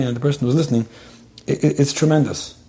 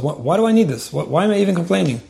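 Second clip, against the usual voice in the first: higher, mock-puzzled self-questioning; imitated self-questioning; 5 semitones higher than usual. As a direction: wonder aloud as someone doubting themselves. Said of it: "people wonder about themselves".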